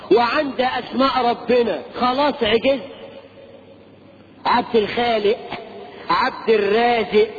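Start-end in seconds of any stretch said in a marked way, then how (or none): 4.5-7.3 "الخالق" and "الرازق" ending in glottal stops; everyday "khaale'", "raaze'" for "الخالق", "الرازق"; colloquial mispronunciation. Shown as a demonstration. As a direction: list "الخالق", "الرازق" with the q dropped. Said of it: "هذا من الالحاد".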